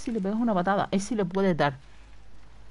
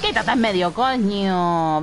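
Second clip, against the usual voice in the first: 1 angry yell; 4 dB louder, slower than usual. Real, not acted. Yelling at enemy blocking way.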